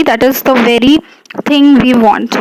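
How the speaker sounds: "very" given deliberate weight; stress on very. Shown as a demonstration. Teacher reading an example of emphasis, stress on very. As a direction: press on "very" to single it out. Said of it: "you are emphasizing".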